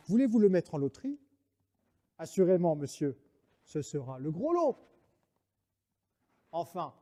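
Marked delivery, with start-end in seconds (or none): 0.1-4.8 practical. Acted.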